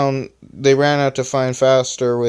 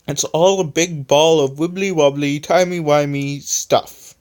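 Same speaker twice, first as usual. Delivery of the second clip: playful, higher, lilting explanation; privately amused; 3 semitones higher than usual. A narrator's reading. Electronic gives a silly explanation, privately amused. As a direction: play it up with a secret laugh underneath. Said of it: "while laughing internally".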